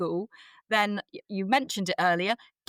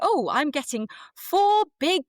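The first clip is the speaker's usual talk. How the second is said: slow, oddly grand, a bit louder; weird delivery; 3 semitones higher, 3 dB louder than usual. Retold or imitated. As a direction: announce the lemons oddly, drawn out. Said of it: "Why did you say it like that?".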